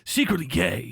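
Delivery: low, hushed mocking gossip. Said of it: "they're like".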